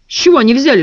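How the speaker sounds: usual speaking voice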